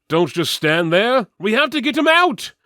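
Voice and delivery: loud, high commanding yell; rally the frozen crew; urgent shout. Acted. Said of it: "Julius shouted".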